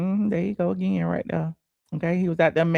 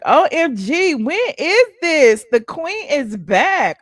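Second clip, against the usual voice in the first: higher, louder, squealing fan excitement; excited fans; 7 semitones higher, 6 dB louder, slower than usual. Retold or imitated. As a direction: gush like thrilled fans. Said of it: "They're like".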